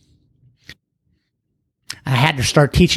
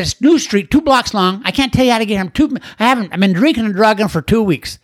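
higher, rambling frantic voice; disoriented caller; 7 semitones higher than usual. Retold or imitated. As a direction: sound lost and exhausted from two weeks of drinking. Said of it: "He said".

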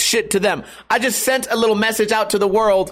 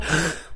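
deep sigh; 5 semitones lower, 8 dB quieter than usual. Shown as a demonstration. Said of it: "take a deep breath".

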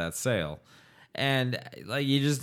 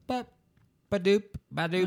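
mock machine noise; 9 semitones higher than usual. Imitating a morphine pump push.

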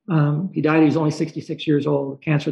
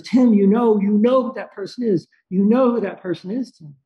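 higher, pressing quoted voice; insistent urging; 4 semitones higher than usual. Retold or imitated. Friend at edge of chair urges Tim, insistent. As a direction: press the point excitedly, retelling a friend.

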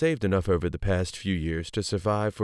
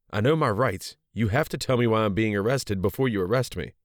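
raised, defiant insistence; 3 semitones higher than usual. Acted. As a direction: stand your ground and demand answers. Woman defying the arresting officer.

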